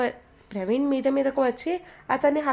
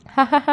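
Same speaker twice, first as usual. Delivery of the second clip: read-out laugh, mildly louder; light mock guffaw; loud laughter; 2 semitones higher, 4 dB louder, much slower than usual. A narrator's reading. Praveen laughs at Manju's boast: hammed-up laugh. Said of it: "పెద్ద పెద్దగా నవ్వుతాడు ప్రవీణ్".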